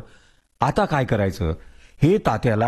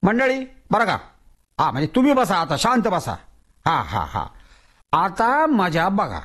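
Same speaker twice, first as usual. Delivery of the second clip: showman Tatya; 4 semitones higher than usual. Acted. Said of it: "ओरडून म्हणाला".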